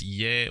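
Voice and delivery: "Ye" as "yeh", with a French accented e; French-style Ye. Shown as a demonstration. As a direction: say "Ye" the French way, rhyming with "yay". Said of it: "pronounced more like a French way".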